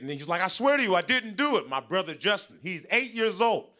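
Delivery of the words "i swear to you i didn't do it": higher-pitched mock protest of innocence; pleading denial. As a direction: plead like a kid caught out. Brother's acted denial to mom.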